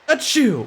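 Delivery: sudden high sneeze; sharp, high-pitched sneeze. Real, not acted. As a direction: let out a quick achoo. Sneeze or imitation of one.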